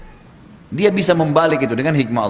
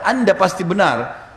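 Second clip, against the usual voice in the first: emphatic quote; 4 semitones higher, slower than usual. Retold or imitated.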